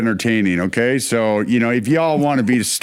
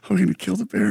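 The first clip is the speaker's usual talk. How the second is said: mock panic; 4 semitones higher, much faster than usual. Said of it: "he's like".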